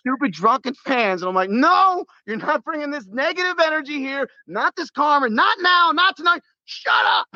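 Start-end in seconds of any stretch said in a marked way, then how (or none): 1.5-6.4 much higher, commanding drill sergeant yell. Retold or imitated. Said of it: "my drill sergeant voice". 6.7-7.3 harsh shut up. Retold or imitated. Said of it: "my drill sergeant voice".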